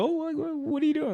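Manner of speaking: mock-surprised coworker. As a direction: play it curious and shocked. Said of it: "they're like".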